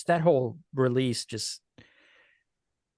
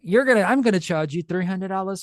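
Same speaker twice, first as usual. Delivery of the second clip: mock English-accented film star; Ewan McGregor; 2 semitones higher than usual. Actor charging for an autograph, mock British impression. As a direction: play the jaded star charging fans. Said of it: "when Ewan McGregor said".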